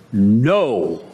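a firm, low "No."; a flat, firm "No."; emphatic no. Acted. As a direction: plant the "No." like a verdict. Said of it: "It's an emphatic no".

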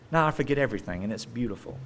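softly trailing, sincere admission. Real, not acted. Preacher testifies to forgetting by mercy, real sincerity. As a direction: say it simply, meaning it. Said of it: "I'm saying that sincerely".

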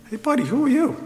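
a sceptic's high, cocky challenge; mock challenge. A doubter in the crowd challenges Jesus, mocking. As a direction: jeer at the upstart teacher.

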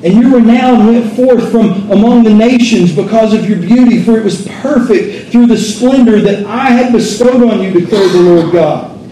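steady, lifted reading of scripture from the pulpit. Acted. Preacher reads Ezekiel to the congregation, proclaiming. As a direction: proclaim the passage like a prophet.

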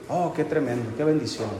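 lightly voiced overly sweet sister; mock sweet reply. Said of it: "qué me va a decir". (con ironía suave, un poco más bajo de volumen)

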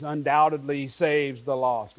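weight on each of "undoubtedly saves the lost"; emphasis on every word. Shown as a demonstration. Preacher showing the congregation the emphasis, each word stressed. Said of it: "with the emphasis on all those words".

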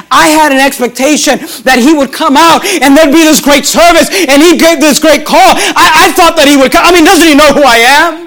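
acted indignant complaint, rising in pitch; angry indignation. Preacher voicing Naaman, whose expectations went unmet, indignant. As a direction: protest like a slighted big shot, building in pitch. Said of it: "Here's what he's saying".

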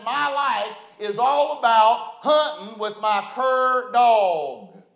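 slow, lightly imitated mountain hillbilly. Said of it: "In his hillbilly mountain voice".

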